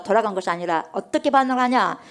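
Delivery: ordinary talk, nothing marked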